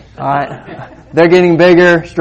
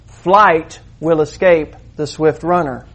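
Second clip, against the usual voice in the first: slow, deliberate. Shown as a demonstration. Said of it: "Literally, this is what it means".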